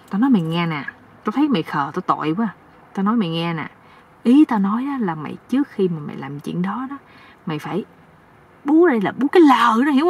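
a touch of confiding elder advice; lightly voiced knowing uncle. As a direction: ease down, lightly coaching a naive youngster. (giọng ông chú hơi hạ xuống, chỉ bảo)

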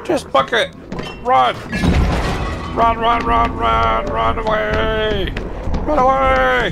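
urgent panicked shouting; being chased. Real, not acted. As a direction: yell while fleeing for your life. Fleeing the chasing creature.

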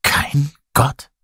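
high, halting shocked question; horrified. A narrator's reading. People question Lazarus, horrified. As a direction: ask it in dismay, split by a pause. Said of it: "Die Menschen waren entsetzt".

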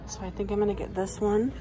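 nasal, talking through a face mask; a bit nasal behind a mask. Real, not acted. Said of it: "Sorry if I sound nasally, guys. I have my mask on".

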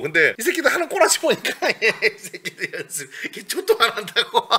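high, loud mock tirade breaking into laughter; exasperated mother ranting. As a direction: rant like a mother fed up with lazy kids. Mother ranting about lazy students, retold.

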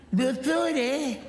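suddenly high and worried, asking the doctor; a grown man's voice jumping up in alarm; panicky high voice. Acted. Patient startled at the eye test, worried and high. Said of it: "Ti cambia pure la voce".

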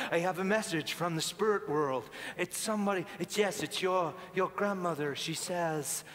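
John Edward. Acted. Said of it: "like John Edward".

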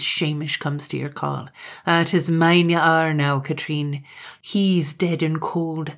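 lightly voiced gloating Highland man; mocking Gloom.

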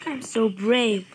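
mock brave. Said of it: "I mean".

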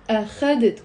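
أخذت stressed on the middle syllable خَ; weight on the KHA of أخذت; stress on second syllable. Shown as a demonstration. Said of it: "The stress is on the خ".

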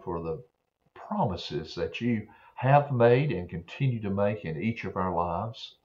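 put-on a simple, earnest prayer spoken for kids. Pastor praying aloud with the boys and girls, earnest prayer. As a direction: pray it plainly and sincerely.

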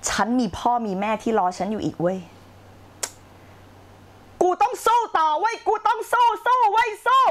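rally yourself, rising to a roar; acted self pep shout. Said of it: "คุณก็ตะโกนต่อสู้กับตัวเองอีกว่า".

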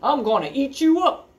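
high, loud troll threat; hollering troll. Acted. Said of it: "he hollered".

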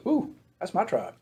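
soft, slow nervous "ooh"; nervous realization. Retold or imitated. Achan hears his tribe called, softly nervous. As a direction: drop to a worried hush, slowly. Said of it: "He goes".

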